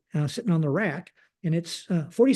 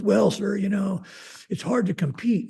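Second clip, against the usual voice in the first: lightly voiced polite subordinate, a little higher; a hint of a polite, higher-pitched employee; 4 semitones higher than usual. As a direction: lightly imitate a respectful employee answering the boss. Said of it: "he was a really polite gentleman".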